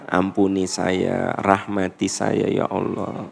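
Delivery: low, hushed night prayer, slowing towards the end; heartfelt supplication. Shown as a demonstration. Preacher showing a tearful tahajud prayer to God, heartfelt. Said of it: "Wah, itu bisa menangis".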